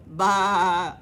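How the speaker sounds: big loud bleat; mock sheep baa loudly. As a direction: bleat out chasing him. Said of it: "por las ovejas".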